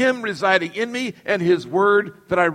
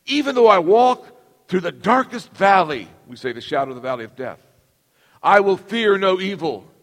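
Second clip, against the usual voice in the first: scripture recitation. Acted. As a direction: recite it like a sacred text. Continuing the psalm recitation.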